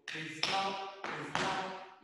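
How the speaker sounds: "Slap" as es-LA, loud on the A; "slap" in two syllables, second one stressed. Shown as a demonstration. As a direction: punch the A in "slap" after an added "e". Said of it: "la A tiene el acento".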